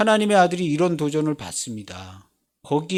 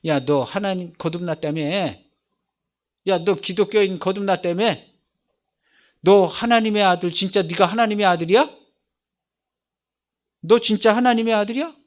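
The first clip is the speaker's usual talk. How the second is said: mocking challenge; 2 semitones higher than usual. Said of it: "물어보죠".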